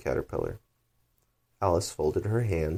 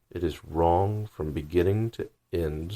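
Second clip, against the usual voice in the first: decided. Acted. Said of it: "said the caterpillar decidedly".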